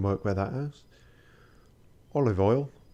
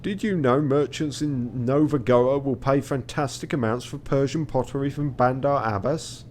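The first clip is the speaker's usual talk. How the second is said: Ottoman captain; 4 semitones higher, 4 dB louder than usual. Acted. Voicing captain's scripted trade tip.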